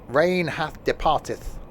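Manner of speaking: slow mock old-English line; hammed-up archaic speech; olde worlde voice. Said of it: "I was trying to think of an oldie worldy".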